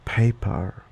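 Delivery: paper with a British "er" ending; British accent. Shown as a demonstration. Contrasting Australian with British accent, "er" ending. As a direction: say paper as British "pay-puh", r silent. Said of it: "In a common British accent".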